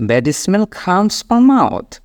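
very slow, every word spelled out; slow model sentence. Shown as a demonstration. Teacher modelling a sentence for the class, very slow. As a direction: drill it slowly for learners to copy. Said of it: "এইভাবে বিষয়টা আসবে".

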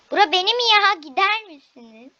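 loud, high protest. Pretend. Child chasing siblings out of her room, protesting. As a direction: claim the room indignantly.

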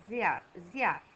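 ziar twice, the I after Z kept clear; repeated ziar. Shown as a demonstration. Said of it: "După Z se aude I".

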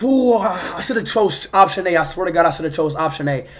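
low, soft muttered regret. Real, not acted. Player regretting his choice in the game, low regret. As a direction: mutter it to yourself, low and rueful.

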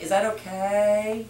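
high, slow, meek rising question; timid upspeak. Shown as a demonstration. Trainer mocking a timid salesperson, high and slow. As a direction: ask permission nervously. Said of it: "But not like".

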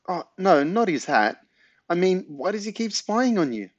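put-on high, lively old lady voice; granny voice. A narrator's reading. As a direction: voice the granny brightly.

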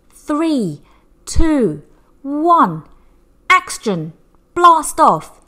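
countdown building to a loud, high shout on blast off; excited countdown. Acted. Reading a rocket launch to children, building to an excited shout. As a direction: count down with rising thrill, then shout blast off.

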